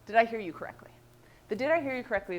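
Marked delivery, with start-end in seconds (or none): 0.1-0.9 whispered, gently asking if she understood; hushed, careful question to a friend. Shown as a demonstration. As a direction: breathe the question almost voicelessly. Modelling the listener's check-in line.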